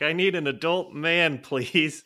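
high, loud helpless plea; mock pleading. Tick victim begging the guide for help, mock pleading. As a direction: plead for rescue like a scared little kid, hammed up.

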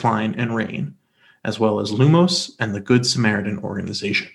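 smooth, even radio reading voice; calming radio voice. Acted. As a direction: read it like a soothing radio host. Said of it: "you do have your calming radio voice".

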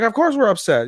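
high, indignant mock retort; acted upset protest. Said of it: "we're devastated".

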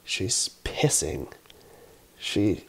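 dropped low and soft, slow, a stunned hush; hushed reveal. Real, not acted. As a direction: let it fall low and slow, like you can't believe it. Shocked reveal of toddler peeing.

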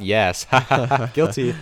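deep voice. Acted. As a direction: voice dropped low. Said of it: "her voice dropped a couple octaves there".

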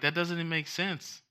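high, laughing disbelief; can't believe what you're hearing; incredulous. Retold or imitated. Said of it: "And I'm like".

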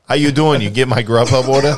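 loud Joey How you doing; Joey impression. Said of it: "How y-, yeah".

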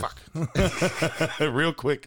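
imitating an old man's grunted curse. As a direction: grunt it like a grumpy old man. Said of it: "some kind of old man grunt".

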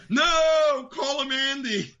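quoting the bit. Retold or imitated. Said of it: "he fucking killed that".

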